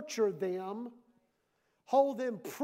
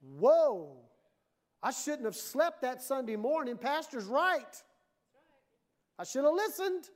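dying realization; 2 semitones higher, 3 dB louder than usual. Acted. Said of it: "have a realization".

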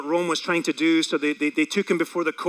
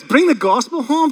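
high, louder, whining; whiny groan; 7 semitones higher, 5 dB louder than usual. Pretend. Whined complaint about task.

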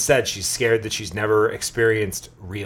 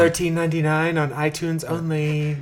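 ad announcer voice; 8 semitones higher, 4 dB louder than usual. Pretend. Mocking a pay-to-watch price.

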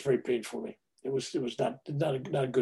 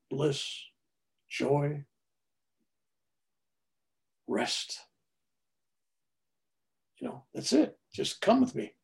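gently imitating an angel, unhurried with long pauses; softly coax, as a tender heavenly voice; soft angelic voice; 4 dB quieter than usual. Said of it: "is the softest, most feminine voice".

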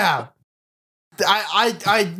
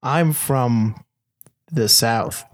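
slow, much lower mock Southern accent; 8 semitones lower, slower than usual. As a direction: drawl it out low and slow like a fake Southern boy. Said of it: "if you just talk slower, that means that you sound more Southern".

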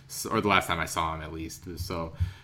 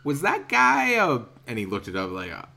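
mild mimic of careful broken English; halting broken English; 4 semitones higher than usual. Joseph asking about the saddle maker, light halting English. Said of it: "highly broken English".

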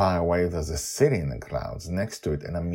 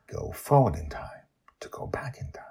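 whisper; 5 semitones higher than usual. Acted. Teaser of time travel.

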